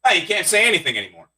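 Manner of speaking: quick, grumbled complaint; grumbling middle-aged mime. Pretend. Mime in his fifties complaining, grumbling. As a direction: grouse it out quickly as an older performer. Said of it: "my impression of a mime in his fifties".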